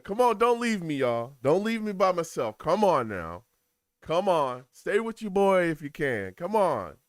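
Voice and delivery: loud, insistent plea to stay; pleading. Real, not acted. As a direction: beg the viewers to stick with you. Begging viewers not to leave.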